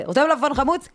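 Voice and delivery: imitated mother's high-pitched serving voice; waitress tone. Mother offering father food mid-fight, imitated waitress tone. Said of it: "היא מורידה את הטון לטון של המלצרית".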